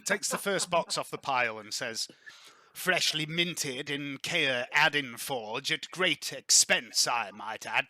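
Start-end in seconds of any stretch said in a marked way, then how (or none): 2.7-7.9 slow, mannered sales presentation; lightly put-on salesman showing off wares; arms dealer's pitch. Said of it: "That's not how he speaks".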